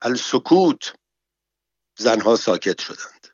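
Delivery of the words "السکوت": mild commanding call for silence; commanding shout. Acted. Mohsene silencing the screaming bath women, commanding.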